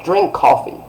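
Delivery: high, forceful imperative; strong order. Shown as a demonstration. Teacher giving someone an order, strong tone. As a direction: command them outright. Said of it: "It's like that".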